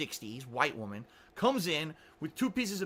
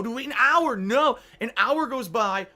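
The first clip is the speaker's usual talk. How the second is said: louder, higher exasperated punchline; 5 semitones higher, 7 dB louder than usual. Real, not acted. Telling viewers how long they waited, exasperated. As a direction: build the count up to an exasperated peak. Building exasperated count of waiting.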